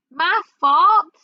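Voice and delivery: indignant. Acted. Indignant reply to accusation.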